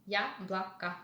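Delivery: "Яблоко" said YA-bla-ka; both O's of "Яблоко" reduced to A; unstressed O as A. Shown as a demonstration. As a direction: end "Яблоко" in A sounds, syllable by syllable. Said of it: "Unstressed syllables".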